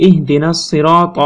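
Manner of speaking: teacher picking ত out of the verse; recited word. Shown as a demonstration. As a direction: quote the verse, chanting it. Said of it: "দেখতে পারবো".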